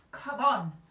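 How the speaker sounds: loud sharp snap. A narrator's reading. Mother hurrying the girl along, sharp voice. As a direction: cut her off sharply. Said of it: "in a rather sharp voice".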